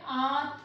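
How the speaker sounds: "आंत" with a long open nasalised vowel; chandrabindu pronunciation. Shown as a demonstration. Teacher adds another example for students, open "आंत". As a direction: open the mouth wide on "आंत". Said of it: "यहाँ पे आप उच्चारण कर रहे हो ना".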